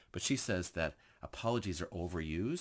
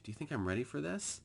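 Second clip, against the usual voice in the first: hesitant question; 7 semitones higher than usual. Shown as a demonstration. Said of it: "they stop and ask".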